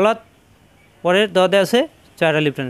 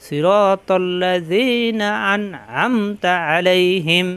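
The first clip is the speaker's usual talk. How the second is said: slow, even recitation with a light আ; much slower than usual. Shown as a demonstration. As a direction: stretch the vowels calmly. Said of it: "আ কিন্তু হালকা".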